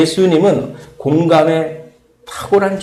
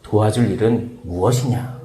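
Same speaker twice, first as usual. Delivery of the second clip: gentle offer; 4 semitones lower, slower than usual. Pretend. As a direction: offer help tenderly. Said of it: "라고 하는 언어로 바꾸면".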